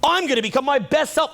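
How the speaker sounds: high, slow mock-grandiose voice; mocking a self-important dreamer, high and slow. Speaker mocks an ego-driven listener in a high, slow voice. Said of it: "self-importance".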